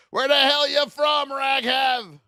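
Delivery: high, loud call across the chat; playful shout. Real, not acted. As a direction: yell the question at a viewer. Calling out a chatter.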